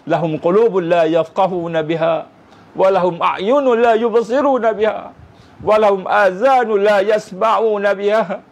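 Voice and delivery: measured Quranic recital, slowing at the end; Quran recitation. Acted. Preacher closing the sermon with a verse, recited. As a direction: intone the verse with reverence.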